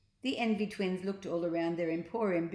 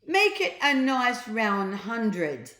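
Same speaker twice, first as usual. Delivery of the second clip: slow, louder boast; slow, generous boastful order; grand offer; 4 semitones higher, 8 dB louder, slower than usual. A narrator's reading. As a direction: savour each word. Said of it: "replied the boy".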